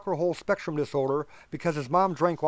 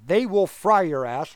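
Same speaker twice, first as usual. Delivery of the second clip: louder, slower, leaning hard on it; emphatic; 6 dB louder, slower than usual. Real, not acted. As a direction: hammer the point home. Emphatic remark on Texas justice.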